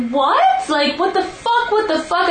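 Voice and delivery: high, disbelieving mock shriek of shock; retold shocked disbelief. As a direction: replay the moment you hear your friend got hit. Retold shock at bad news.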